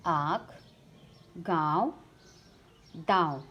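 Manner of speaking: आँख, गाँव, दाँव with the vowels clearly through the nose; nasal vowels. Shown as a demonstration. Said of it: "नाक और गले से होता है".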